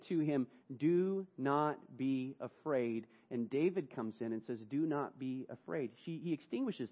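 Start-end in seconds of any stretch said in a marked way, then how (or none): 0.8-3.1 very slow, gentle assurance; Jesus soothing John, slow and gentle; slow comfort. Acted. 4.7-5.9 softer, meant every word; David's heartfelt comfort, quiet; sincere reassurance. Acted. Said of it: "David actually meant what he said".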